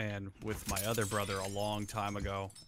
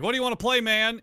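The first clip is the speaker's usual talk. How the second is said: bright, much higher and louder hyped-up question; mock eager; 10 semitones higher, 7 dB louder than usual. Big brother hyping up his little brother about games. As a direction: play up your own eager invite. Asking kid brother what to play.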